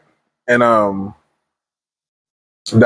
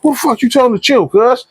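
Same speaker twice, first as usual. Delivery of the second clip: much higher, sneering threat; menacing psycho; 12 semitones higher than usual. Retold or imitated. Gunman turning on the reporter, sneering and angry. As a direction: snap it back at him, unhinged. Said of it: "He didn't say it like that".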